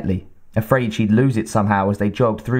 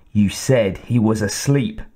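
scowling; slower than usual. Acted. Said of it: "he scowled".

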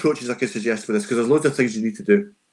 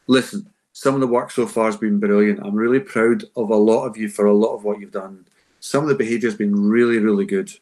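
praise laid on thick. Shown as a demonstration. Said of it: "layer that on thick".

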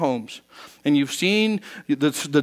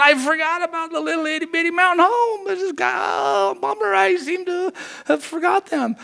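much higher, silly offhand God voice; mocking a careless God; 13 semitones higher than usual. Preacher mocking a God who shrugs off Mountain Home, high and silly. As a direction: lampoon a forgetful, shrugging God. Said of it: "It's not like God's going".

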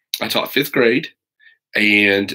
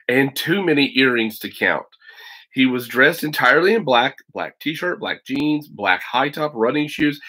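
put-on steady read-aloud narration for kids; teacher reading a novel to students; story narration. A narrator's reading. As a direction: tell the story to a class.

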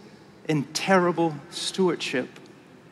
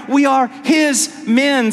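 shout; 8 semitones higher, 6 dB louder, slower than usual. Acted. Shouted climax inside sermon.

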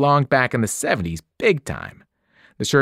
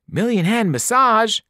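"Million hand massage" pitched much higher, thrilled; excited cry; 10 semitones higher, 3 dB louder than usual. A narrator's reading. Boy diving onto the bed, thrilled cry. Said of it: "Grover cried and dove in".

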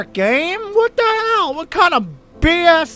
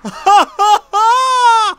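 loud panicked laugh-cry after a scare; nervous scream-laugh; shocked laughing scream; 8 semitones higher, 4 dB louder than usual. Real, not acted. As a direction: laugh through the fright, loud.

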